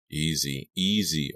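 soothing, unhurried repeated word; calm someone down with gentle words. A narrator's reading. Lizzie soothing her sobbing friend, gently. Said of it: "I told her gently".

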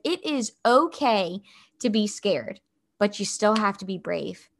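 steady a scared kid, retold; firm reassurance. Mother reassures her scared son.

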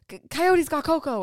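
mildly shaken report of the attack; upset. Retold or imitated. Husband telling wife the dog was attacked, a touch shaken. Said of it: "And he's like".

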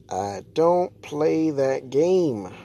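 each word drawn out, firm; slow emphatic repeat. Shown as a demonstration. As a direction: spell out "I don't play that game" slowly.

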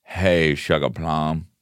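lightly put-on cowboy accent; half-hearted cowboy accent. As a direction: try a cowboy drawl on a pet name. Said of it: "It's a Biff fucking cowboy".

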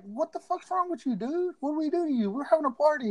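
high, quiet mocking whine; mock indignant friends. Friends mock-protesting to angry Doughboy, high whiny voice. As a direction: play it up as innocent partygoers.

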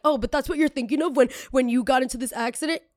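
high, loud disbelieving question; incredulous question. Retold or imitated. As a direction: act shocked at her thinking. Imagined critic questioning her.

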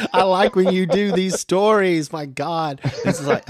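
high, loud, laughing praise; real amused, delighted outburst. Real, not acted. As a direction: gush through laughter. Host delighted, laughing at the story.

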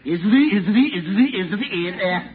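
stammering on every word; stuttering. Acted. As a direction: get stuck repeating syllables. Stuttering witness.

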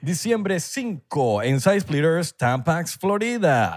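ad announcer voice. Retold or imitated. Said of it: "publicidad ... que hace Baldomero Martínez".

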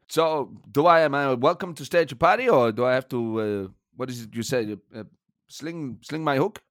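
hesitant German manager impression; comic foreign manager, unsure of the phrase; Thomas Frank. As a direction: grope for the English idiom in a put-on accent. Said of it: "Thomas Frank, it's been a pleasure".

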